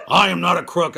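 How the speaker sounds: a hint of Nixon denying; Nixon impression. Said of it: "do a Nixon impression".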